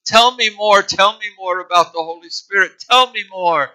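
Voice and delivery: eager pleading. Acted. Boy begging missionary for more.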